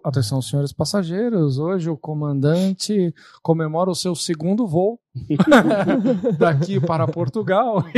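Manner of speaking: pilot cockpit announcement. Retold or imitated. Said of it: "imagina você tá no nosso voo lá".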